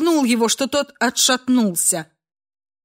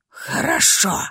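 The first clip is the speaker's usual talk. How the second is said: breathy scornful snort of a word; 4 semitones lower than usual. A narrator's reading. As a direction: huff it out with contempt. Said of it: "фыркнул Ашер". (фыркнул презрительно)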